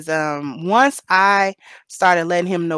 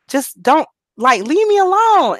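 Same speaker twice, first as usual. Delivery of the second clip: high, pleading, higher and louder; crying plea; 9 semitones higher, 5 dB louder than usual. Retold or imitated. To her husband, pleading through angry tears. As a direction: beg him to stop, near tears. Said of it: "And so I'd be like".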